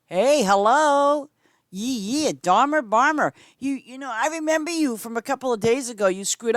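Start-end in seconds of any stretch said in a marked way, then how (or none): 0.1-1.3 higher, louder, slow hello; loud greeting. Real, not acted. Streamer welcomes a player back, calling out. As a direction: hail them happily from afar.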